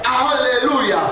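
a fervent sister's high "Aleluya", falling at the end; sister's hallelujah. Retold or imitated. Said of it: "la hermana decía". ("Aleluya" alto y fuerte de hermana fervorosa)

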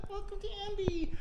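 mock Alicia voice, lightly done; Alicia impression. Host and guest, guest imitates absent co-host Alicia, mock voice. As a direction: do a quick take on Alicia. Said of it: "that was a spot on Alicia impression".

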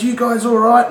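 high, loud urgent question; loud ambulance check. Retold or imitated. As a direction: call it out like a paramedic. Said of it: "they look at us".

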